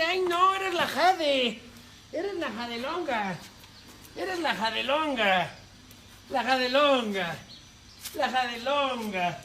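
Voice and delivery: voice for the cat. Acted. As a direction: put words in the kitten's mouth, sing-song.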